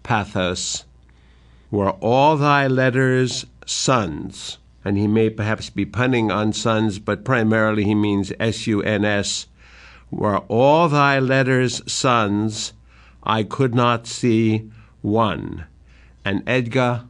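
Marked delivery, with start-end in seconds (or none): 1.7-4.6 pathos. Acted. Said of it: "with ultimate pathos". 10.1-15.7 pathos. Acted. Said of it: "with ultimate pathos".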